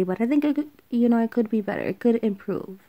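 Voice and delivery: stumbling over words; repeating words while stuttering. Real, not acted. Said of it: "I'm stuttering".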